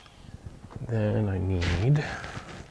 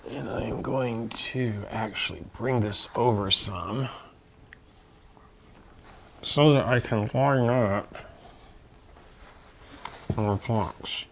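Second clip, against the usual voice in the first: talking around pins held in lips; mumbling with pins between lips; pins in mouth. Real, not acted. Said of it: "Yes, I'm talking with pins in my mouth".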